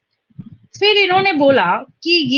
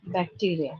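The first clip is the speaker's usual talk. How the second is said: slow dictation; 5 semitones lower, 6 dB quieter, much slower than usual. Real, not acted. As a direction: lower voice, words spaced far apart. Dictating while writing out the statement. (रुक-रुक कर, शब्द-दर-शब्द लिखवाते हुए)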